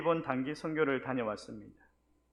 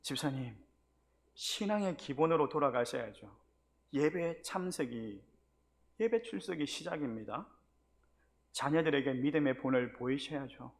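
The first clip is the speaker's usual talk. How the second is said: calmly advising. Retold or imitated. Pastor calmly counseling the deacon after scolding, gentle. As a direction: talk him round patiently. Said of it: "다시 마음을 싹 가라앉히고".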